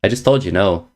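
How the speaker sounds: ordinary talk, nothing marked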